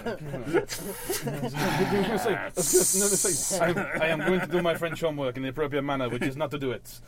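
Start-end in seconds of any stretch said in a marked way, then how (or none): 3.6-7.0 mock French, played for laughs; lightly put-on French accent. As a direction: answer in a comic French accent. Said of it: "I'm doing a French ac".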